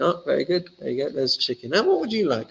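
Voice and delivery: a hammed-up courteous server; polite waiter. Diner serving neighbour.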